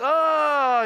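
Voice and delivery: loud weary oh; exasperated groan. Shown as a demonstration. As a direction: groan at a long sermon. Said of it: "another twenty-seven minutes".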